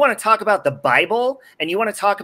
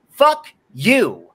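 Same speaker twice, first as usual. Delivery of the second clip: angry curse; 2 semitones higher, slower than usual. Real, not acted. Cursing mom again.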